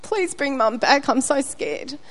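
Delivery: put-on slow, hushed little-girl prayer; a hint of a scared child's whispered plea; scared child praying. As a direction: plead like a frightened five-year-old, slowly. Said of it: "and I was like".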